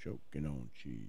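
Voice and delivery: very low, slow, dropped way down; deep voice. Pretend. Improvised silly chant, deep.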